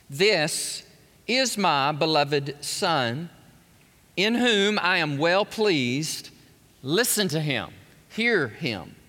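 lightly voiced God the Father, slow and grave. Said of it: "A voice came from out of the cloud saying".

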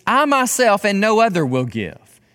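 emphatic weight on "I myself and no other". Shown as a demonstration. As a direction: stress on "I myself". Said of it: "there is this emphatic".

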